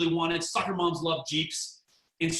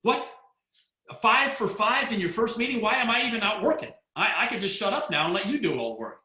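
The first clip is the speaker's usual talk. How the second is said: amazed; 5 semitones higher than usual. Retold or imitated. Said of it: "And I went".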